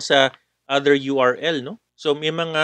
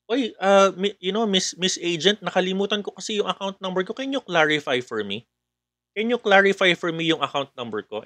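scam caller; 4 semitones higher than usual. Acted. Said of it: "merong tumatawag".

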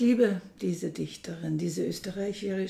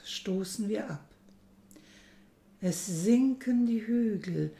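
Gedichtvortrag. Acted. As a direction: recite it line by line, letting each image stand. Reads the announced poem aloud. (getragener, langsamer Gedichtvortrag)

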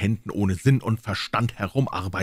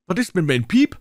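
higher, louder cursing; cursing old men; 10 semitones higher, 5 dB louder than usual. Acted. Old men cursing about their pipes, high and loud. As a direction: swear like an angry old man.

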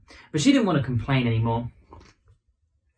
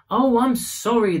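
apologetic; 8 semitones higher, 4 dB louder than usual. Acted. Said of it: "the doctor apologised".

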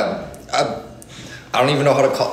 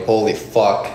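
mouth burning from spicy food; 3 semitones lower than usual. Real, not acted. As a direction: mouth on fire, hissing through heat. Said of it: "My lips are on fire right now".

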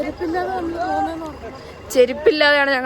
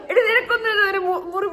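laughing; 6 semitones higher than usual. Real, not acted. Laughing at friend in cold.

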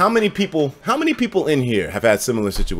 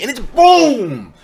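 mock impact boom; 10 semitones higher, 6 dB louder, much slower than usual. Acting out the punch again.

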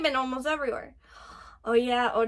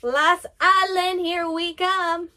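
slow, drawn-out, raised call; eager rallying call; 4 semitones higher, 5 dB louder, slower than usual. Real, not acted. Fan heading for the last island, drawn-out eager call. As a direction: call it out proudly, stretching each word. Announcing the journey ahead.

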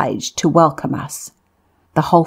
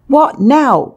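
high, startled cry; soldiers' cry; 9 semitones higher, 3 dB louder than usual. A narrator's reading. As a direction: jump up in pitch, alarmed. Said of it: "cried the soldiers".

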